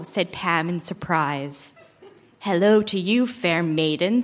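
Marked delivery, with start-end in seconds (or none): 2.4-4.2 creepy voice. Acted. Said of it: "said the godmother in a creepy voice".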